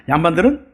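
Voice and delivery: ordinary talk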